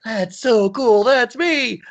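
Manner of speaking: high thrilled squeal of delight; excited. Retold or imitated. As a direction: gush like a thrilled kid. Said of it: "And I was like".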